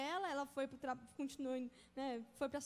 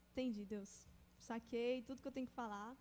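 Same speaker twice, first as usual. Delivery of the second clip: lower, hushed aside; private aside; 4 semitones lower, 5 dB quieter than usual. Retold or imitated. Student privately answering God, hushed acted aside. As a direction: drop it low, as if thinking to God.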